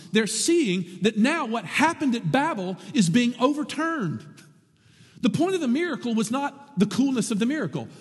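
usual speaking voice

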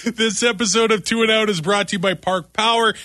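upbeat sponsor read over music. Acted. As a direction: read it like a radio ad.

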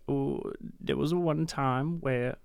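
bad, slow Viking-style Danish accent. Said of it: "that was a really bad Danish accent".

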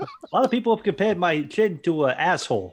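mock late-night monologue voice; Jay Leno. Podcaster joking as the host about his chin, comic impression. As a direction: deliver it as a hammy talk-show comic. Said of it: "do the Jay Leno voice".

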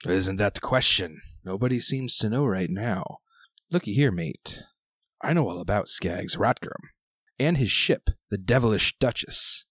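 lightly voiced gruff old sailor; gruff old fisherman. GM plays old pirate sailor.

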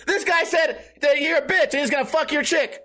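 high, hammed-up tattling; pretend call-out. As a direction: announce it to the room to stir trouble. Pretend tattling to provoke a fight.

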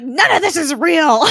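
loud, high mock meltdown; coming undone. Gemma breaks down before the others, coming undone. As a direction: cry it out as someone unravelling. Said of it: "Gemma just comes undone".

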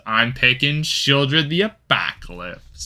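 put-on slow, teasing Chicago accent. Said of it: "you doing a Chicago accent?".

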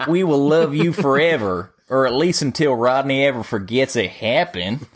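lightly put-on Southern accent with a laugh; a hint of Southern drawl, giggling through it. Rodney begs listeners for reviews, faint Southern accent. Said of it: "in your best Southern drawl accent".

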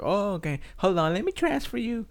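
high, bright clerk voice, pitched well up; receptionist voice. Retold or imitated. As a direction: mimic the clerk politely passing him on. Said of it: "And she was like".

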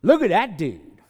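hammed-up admiration; impressed gawking. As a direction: churchgoers gawking at the billionaire, awed. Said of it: "everybody looks and says".

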